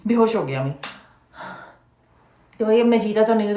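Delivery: Omi's hammed-up swoon, lightly voiced; mock theatrical faint; mocking fainting act. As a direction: play it like a fake faint.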